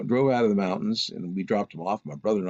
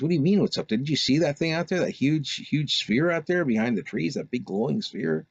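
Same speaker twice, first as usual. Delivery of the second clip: higher, pressed, worked-up retelling; agitated disbelief; 7 semitones higher than usual. Retold or imitated. Brother snaps at the girls, higher and worked up. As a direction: push it up in pitch, incredulous.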